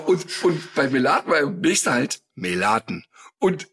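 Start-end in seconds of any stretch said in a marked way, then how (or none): 1.4-3.1 imitating the stop announcer, dropping low on the name; mimicked tram announcer with a low final word; tram stop announcement. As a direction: announce the stop, then let the name fall. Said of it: "jede Haltestelle angesagt".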